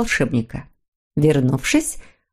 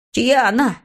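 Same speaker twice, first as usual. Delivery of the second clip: lightly breathless question, pitched up; out of breath; 5 semitones higher than usual. Acted. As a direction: ask it on an exhale, mildly winded. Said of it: "запыхавшись, выдохнул Мумитроль". (слегка запыхавшись)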